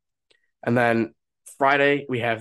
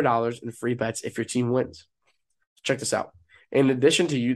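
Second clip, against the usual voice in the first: upbeat sponsor read, punchy and salesy. Acted. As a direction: sell it like a radio spot.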